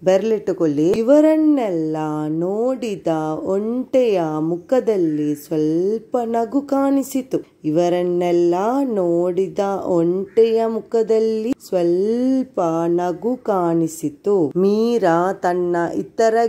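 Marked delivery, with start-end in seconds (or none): 1.0-7.4 model reading. Shown as a demonstration. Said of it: "ಒಂದು page ಅನ್ನ ನಿಮ್ಗೆ ಓದಿ ಹೇಳ್ತೇನೆ". 7.7-14.4 put-on child repeating. Shown as a demonstration. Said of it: "ಅದನ್ನು ನನಗೆ ಓದಿ ಹೇಳ್ಬೇಕು".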